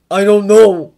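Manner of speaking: loud frustrated shout; Harry shouting at his friends, frustrated. A narrator's reading. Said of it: "Harry shouted".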